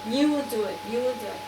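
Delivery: firm, emphatic plea to God; insistent retold prayer. Retelling her desperate prayer for a phone, firm and insistent. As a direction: demand a miracle, imitating your own prayer.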